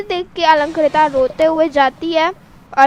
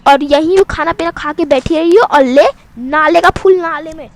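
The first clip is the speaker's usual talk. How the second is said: loud angry scolding; angry rant; 6 dB louder than usual. Acted. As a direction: rant her out of the house. Sister ranting angrily.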